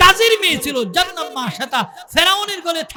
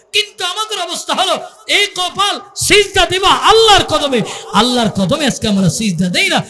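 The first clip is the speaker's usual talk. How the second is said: fiery sermon shout, raised pitch; fiery preaching; 3 dB louder than usual. Real, not acted. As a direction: thunder at the congregation. Preacher at full force.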